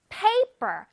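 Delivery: paper with PA high, the end falling away; first-syllable stress. Shown as a demonstration. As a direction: punch the PA in paper, let -per drop. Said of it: "P A 부분 첫 음절에서 강세를 줘요". (paper의 첫 음절에 강세)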